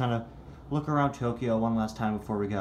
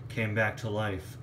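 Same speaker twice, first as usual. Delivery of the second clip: slow, lower scoffing repeat; 5 semitones lower than usual. Acted. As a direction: echo it back with contempt. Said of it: "I already told you".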